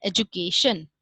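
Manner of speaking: "education" with a j sound, ed-ju-KAY-shun; common pronunciation. Shown as a demonstration. Teacher showing how most say it, "education" with a j sound. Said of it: "the word is pronounced as education".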